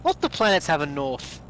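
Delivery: put-on northern English accent; quoting in a mock northern English accent; Ninth Doctor. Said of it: "almost started sounding like Ninth Doctor".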